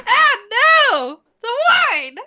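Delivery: high, loud cry of dismay; comic dismay. Acted. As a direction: cry out as the glass falls. Someone drops their glass.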